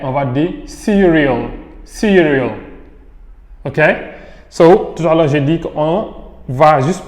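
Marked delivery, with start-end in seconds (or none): 0.7-2.5 "cereal" with the R sounded before the vowel; demonstrating a pronounced R in "cereal". Shown as a demonstration. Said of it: "on lit le R".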